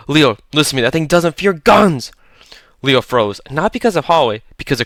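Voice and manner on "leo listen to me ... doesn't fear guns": raw with fear. A narrator's reading. Holloway pleading with Leo, loud and fearful. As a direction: beg him to listen, terrified. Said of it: "raw with fear".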